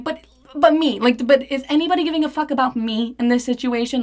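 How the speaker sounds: high, hurried self-centred protest; panicked word vomiting. Retold or imitated. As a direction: blurt it out in a worked-up rush. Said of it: "fucking word vomiting at this point".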